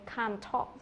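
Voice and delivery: "can't" and "talk" both said clearly; clearly stressed CAN'T. Shown as a demonstration. Teacher shows learners the negative, "can't talk" with both words clearly stressed. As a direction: give "can't" full weight before "talk". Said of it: "rất là rõ".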